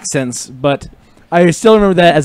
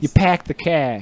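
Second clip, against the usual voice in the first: Boston accent; 4 dB quieter than usual. Shown as a demonstration. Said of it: "for a Boston accent".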